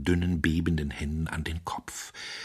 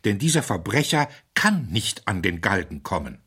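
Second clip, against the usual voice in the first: feverish excitement; 6 semitones higher, 4 dB louder than usual. A narrator's reading. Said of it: "in fieberhafter, fast hysterischer Aufregung".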